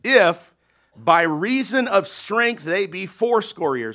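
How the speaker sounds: "if" pushed out loud and high, then slow; stress on if. Shown as a demonstration. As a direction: punch the word "if". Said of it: "now that word if is there".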